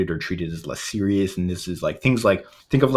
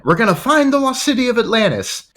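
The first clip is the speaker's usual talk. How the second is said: overcompensating villain; 4 dB louder than usual. Retold or imitated. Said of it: "the way he overcompensates is, like".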